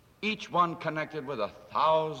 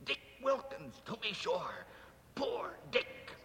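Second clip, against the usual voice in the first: soft fond recall; 5 semitones higher, 8 dB quieter than usual. Acted. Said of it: "said Scrooge to the ghost".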